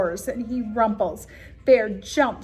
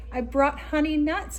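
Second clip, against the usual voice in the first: grinning badger; 6 semitones higher than usual. A narrator's reading. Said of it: "badger says with a grin".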